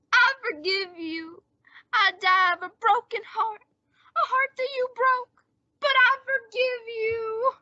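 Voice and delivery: guilt-trip her as a noble martyr; fake martyr's forgiveness. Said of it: "pull this deathbed gag".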